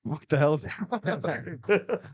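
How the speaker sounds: role. Acted. Mocking friend's accent.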